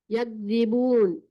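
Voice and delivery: word stretched out slowly; slow, careful Quranic reading; slow recitation. Shown as a demonstration. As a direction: recite clearly, syllable by syllable. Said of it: "teacher reads Quranic word".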